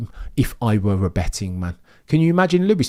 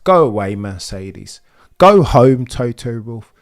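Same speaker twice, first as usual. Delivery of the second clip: mock dismissal; 4 dB louder than usual. Real, not acted. Dismissing Mercedes.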